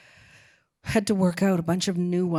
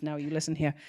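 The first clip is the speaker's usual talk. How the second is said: hammed-up British bluster, swooping pitch; Harold Pinter's British accent; faster than usual. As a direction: sound baffled and indignant in a British accent. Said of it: "That's a good British accent".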